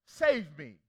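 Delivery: loud desperate cry for rescue. A narrator's reading. Peter sinking in the storm, crying loud to the Lord. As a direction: shout it like a sinking man. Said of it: "he cried out".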